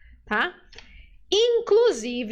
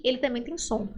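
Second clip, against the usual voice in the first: raspy j hiss; 3 dB quieter than usual. Shown as a demonstration. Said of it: "pensa em um gato agressivo".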